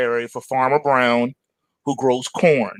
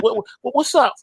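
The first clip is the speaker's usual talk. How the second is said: high, jittery squeak; startled farmer answering; nervous farmer; 8 semitones higher than usual. Acted. Scared Farmer Brown answers the tiger, high nervous squeak. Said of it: "Farmer Brown's like".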